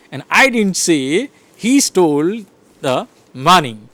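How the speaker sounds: HE stressed, slow delivery. Shown as a demonstration. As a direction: hit the word he slowly. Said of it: "So I am stressing".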